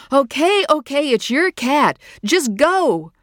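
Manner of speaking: loud high giving in. Acted. Mother gives in to her daughter, loud and urgent. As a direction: give up the fight, urgently. Mother conceding, urging child.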